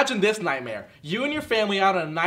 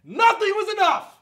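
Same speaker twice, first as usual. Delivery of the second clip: breaking laugh-cry; 12 semitones higher, 5 dB louder, slower than usual. Acted. Cracks into laugh-sob.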